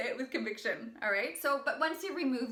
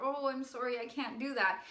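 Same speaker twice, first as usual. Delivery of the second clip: mock apologetic refusal; guilty apology. Coach showing a refusal that invites pushback, mildly guilty. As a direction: beg off with a touch of guilt. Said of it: "go in with our guilt".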